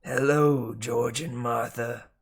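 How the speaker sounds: slow, raspy snake drawl; raspy male snake talking inside a head. Acted. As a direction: drag it out like a lazy snake. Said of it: "a raspy male voice said".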